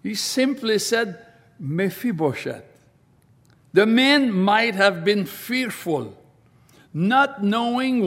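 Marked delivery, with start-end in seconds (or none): 1.6-2.6 soft, lower "Mephibosheth." said tenderly; "Mephibosheth." spoken gently with comfort; loving call. Shown as a demonstration. David calling the frightened man: soft, loving "Mephibosheth.". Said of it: "there must have been love, comfort in David's tone".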